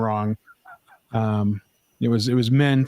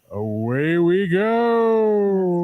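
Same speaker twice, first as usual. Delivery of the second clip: big, slow radio show intro with long-stretched words; radio announcer; 3 semitones higher, slower than usual. Pretend. Co-host opens Monday Night Live and introduces the guest, radio announcer voice. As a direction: draw out each phrase like a ring announcer, pitch swooping up. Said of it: "you got that radio voice".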